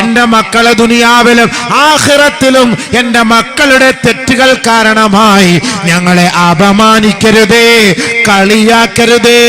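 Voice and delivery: high, loud and slow, in full sermon chant; fervent preaching. Acted. Preacher exhorting parents at a wedding gathering, loud and high. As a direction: preach it out to the hall, slow and soaring.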